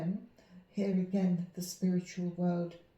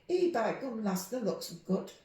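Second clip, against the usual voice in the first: a light broad Yorkshire greeting; 3 semitones higher than usual. Shown as a demonstration. The speaker demonstrating broad Yorkshire for the interviewer. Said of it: "Can you give us a demonstration?".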